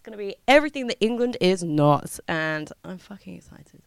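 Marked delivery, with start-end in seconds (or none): 2.3-3.8 low, soft, almost under the breath; understated excitement. Real, not acted. Host about to jet off to Thailand, quietly excited. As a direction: drop the voice, holding excitement in. Same words quietly, then loudly.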